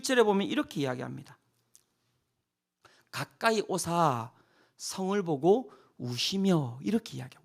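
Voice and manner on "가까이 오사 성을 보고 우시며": lower, slow and hushed; slow, soft scripture reading. Acted. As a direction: read it gently, as if moved.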